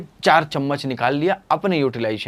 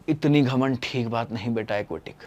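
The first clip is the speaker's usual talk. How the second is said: softer, calm scolding; gentle rebuke; 3 semitones lower, 7 dB quieter than usual. Retold or imitated. Teacher softly scolding the proud aquatic. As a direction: quietly chide the proud one. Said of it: "मैंने क्या कहा?".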